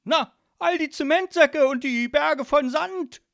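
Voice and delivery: high, loud, put-out godfather; irritated. A narrator's reading. Godfather answers daughter about toys, irritated. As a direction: answer as if it were obvious, irked and loud. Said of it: "antwortete Don Calzone irritiert".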